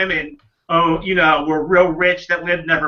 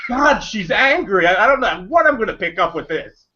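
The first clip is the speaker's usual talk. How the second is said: giggling through the words; laughing; 3 semitones higher than usual. Retold or imitated. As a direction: laugh as you speak. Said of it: "I was just like".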